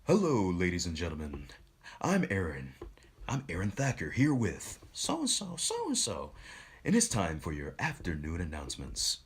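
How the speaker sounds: punchy, attention-grabbing announcer; lively announcer voice. Shown as a demonstration. Student kicking off afternoon announcements to grab attention, showy announcer voice. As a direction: open big, swooping up on the names. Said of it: "in the voice that I kinda have now".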